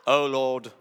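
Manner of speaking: loud, put-on English praying voice; mock English accent. Preacher mocks showy prayer with an English accent. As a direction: call on the Lord in hammed-up English. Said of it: "You just get an English accent".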